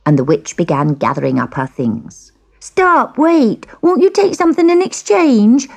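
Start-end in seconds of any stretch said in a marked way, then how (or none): 2.6-5.7 high, loud, desperate plea; begging. A narrator's reading. Girl begs the witch to stay, high desperate pleading. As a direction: call her back urgently, high-pitched. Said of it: "begged the girl".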